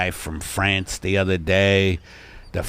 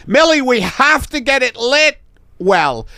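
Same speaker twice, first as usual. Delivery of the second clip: high, raised photographer voice; fussy photographer; 8 dB louder than usual. Acted. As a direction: direct your model from across the studio. Photographer insists to his model.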